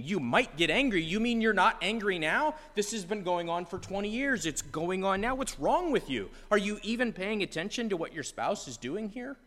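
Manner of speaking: exasperated at the friend; incredulous retort. Retold or imitated. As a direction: listener reacting to the friend's weak threat, incredulous. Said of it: "And you're sitting there thinking".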